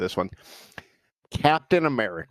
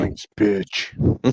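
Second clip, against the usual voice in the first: whispered Zoinks; 4 semitones lower than usual. Pretend. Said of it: "There you go".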